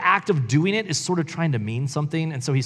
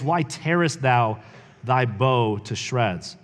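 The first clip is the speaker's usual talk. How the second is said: dramatic poem reading. Shown as a demonstration. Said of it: "I won't say it in a weird way".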